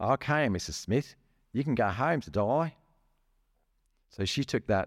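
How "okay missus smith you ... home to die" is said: put-on broad Australian accent, pitched up. Telling a hospital story, quoting the man discharging a patient in a put-on broad Australian accent. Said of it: "excuse my Australian accent".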